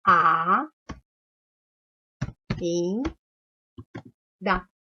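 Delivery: "A, in, da" with a long pause after each piece; isolated syllables. Shown as a demonstration. Teacher counting three syllables for pupils, "A, in, da" far apart. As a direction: give "A", "in" and "da" each alone. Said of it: "Três vezes".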